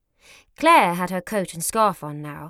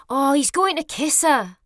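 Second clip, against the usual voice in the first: excited; 6 semitones higher than usual. Acted. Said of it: "her eyes wide with excitement".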